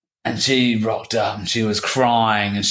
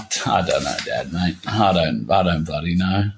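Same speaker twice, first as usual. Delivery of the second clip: sheepish reply; 5 semitones lower than usual. Retold or imitated. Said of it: "I was like".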